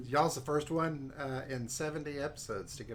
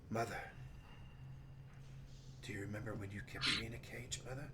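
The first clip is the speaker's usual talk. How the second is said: mumbling under the breath; 2 semitones lower, 8 dB quieter, much faster than usual. Acted. Salim muttering to his absent mother, mumbled. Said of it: "you hear him mumbling under his breath".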